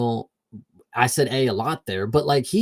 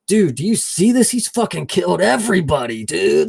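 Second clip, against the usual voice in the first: scared buddy; 6 semitones higher, 4 dB louder than usual. Retold or imitated. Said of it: "He's like".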